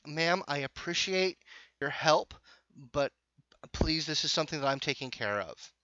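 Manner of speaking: lightly acted "back off, ma'am" firmness; polite but firm objection. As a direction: firmly wave off unwanted help. Acted objection from behind the player.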